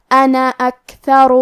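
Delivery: انا recited slowly, with a short a on the nun and no alif; short nun demo. Shown as a demonstration. Teacher shows students the short nun, slow chant. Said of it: "صرف زبر سے پڑھیں گے".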